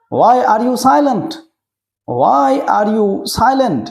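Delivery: very slow, every word drawn out for learners; drawn-out classroom model; slow teaching repeat. Shown as a demonstration. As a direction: spell it out slowly so children can follow. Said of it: "repeats slowly for learners".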